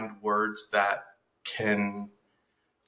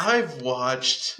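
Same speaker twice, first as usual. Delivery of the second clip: high, drawn-out, laughing nerd voice; mock anime nerd; 3 semitones higher than usual. Teasing her friend by imitating a smug anime fan, laughing. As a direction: ham up a smug fan bragging about his anime. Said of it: "hit somebody who's like".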